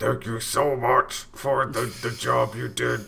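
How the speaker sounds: rough monster-like voice. Describing a man's weird voice and imitating how he spoke: Cookie Monster voice. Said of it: "He sounded like Cookie Monster a little bit".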